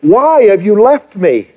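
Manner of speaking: a retold plea, half relived; anguished prayer. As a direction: cry out to a God who seems gone. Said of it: "when I cried out and I said to him".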